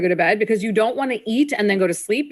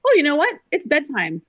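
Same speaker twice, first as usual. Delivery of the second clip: breezy; 5 semitones higher than usual. Retold or imitated. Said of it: "those people who just say".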